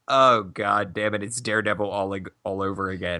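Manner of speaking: low, weary muttering to himself, imitated; imagined dejected Affleck. Podcaster voicing Affleck's thoughts at the interview, low and dejected. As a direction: sink your pitch into a glum inner groan. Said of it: "he's just sitting there going".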